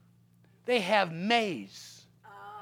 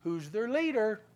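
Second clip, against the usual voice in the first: God speaks softly and pointedly; the still small voice asking; quiet voice of God; 2 semitones lower, 4 dB quieter than usual. Retold or imitated. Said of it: "God said".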